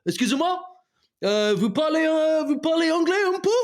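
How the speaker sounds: sing-song high tourist French, rising to the end; mock tourist French. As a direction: ask politely in bad schoolboy French. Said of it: "you go up to people and go".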